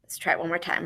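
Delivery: soft unvoiced instruction; whisper. Shown as a demonstration. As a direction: whisper the cue. Teacher whispers to class.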